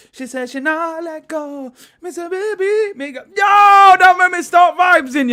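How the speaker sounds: high, loud patois shouting; Jamaican patois outburst. Acted. Streamer hyping chat in loud Jamaican patois. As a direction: bust out in yard patois.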